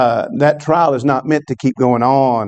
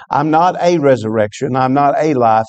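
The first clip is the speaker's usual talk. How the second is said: "a" lifted and stressed in "I'm not a resurrection"; a stressed rising "a". Shown as a demonstration. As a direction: hit the word "a" to set it against "the". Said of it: "Jesus is being so emphatic".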